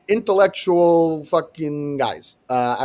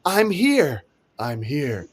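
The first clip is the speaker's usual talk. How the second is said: high, drawn-out parody of a New Yorker; mock New Yorker; 7 semitones higher, much slower than usual. Riffing on sidewalk New Yorkers, in a very high mock voice. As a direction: squeal it as a silly New Yorker. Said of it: "all those New Yorkers that are like".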